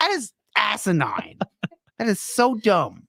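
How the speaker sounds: scornful. Real, not acted. Scoffing at a silly idea.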